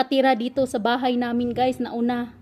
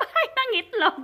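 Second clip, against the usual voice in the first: laughing; 11 semitones higher than usual. Real, not acted. Laughs at own slip.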